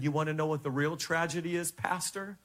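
low, soft, grave reply; voice of the Holy Spirit. Retold or imitated. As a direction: answer quietly and deep, pausing for weight. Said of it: "the Holy Spirit spoke to me and he said".

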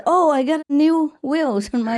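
high, drawn-out mock amazement; hammed-up joy, slow and high; mock delight. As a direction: marvel like a man just healed. Healed man's delighted punchline.

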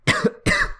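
sudden coughing fit on coffee; real cough, choked on a drink; choking cough. Real, not acted. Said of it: "Sorry, I'm choking on my coffee".

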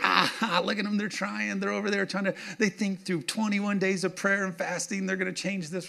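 a quiet, high mocking sing-song; mocking world. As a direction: jeer at the believers from up high. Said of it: "And the world's like".

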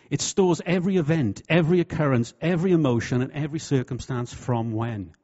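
rising preacher's crescendo; building emphasis. Real, not acted. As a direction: hammer each item harder. Building sermon point.

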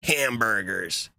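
slow, stretched mock American accent. Co-host told him to go American, mock American accent. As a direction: draw the word out in a hammed-up American accent. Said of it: "All right, American".

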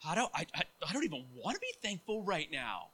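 put-on sulky child turning into a loud tantrum at God; whiny angry demand to God. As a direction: start grumbling, build to a loud tantrum at God. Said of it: "and you're like".

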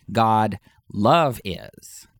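love leaned on, drawn out slowly; slow God love is, weight on love; stress on love. Shown as a demonstration. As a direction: give love the emphatic beat. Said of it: "agape is in an emphatic place".

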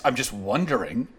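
soft, falsely innocent little aside; mock innocent. Mocking a critic's falsely innocent question, softly. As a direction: play it sweetly innocent with a hidden barb. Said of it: "I'm not accusing you of this".

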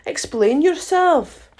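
lightly voiced stern caterpillar, drawn out. A narrator's reading. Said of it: "said the caterpillar sternly".

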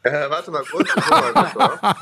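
talking while chewing; mouth full. Real, not acted. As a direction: speak through a mouthful of food. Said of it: "Kau erst mal zu Ende".

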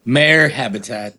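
pirate shout. Acted. Pirate interjection, loud.

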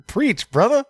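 high laughing preach brother; laughing cheer. Real, not acted. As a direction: cackle out a gleeful amen.

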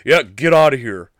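loud jeering taunt, a different voice; mock heckler shouting him out of the front row; heckling yell. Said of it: "I hear someone say".

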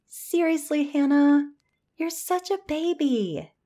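mocking. Melanie mocks Hannah.

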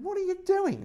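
high, loud, disbelieving yell; retold shout. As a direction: yell it at your mate in disbelief. Yelling at Bill again.

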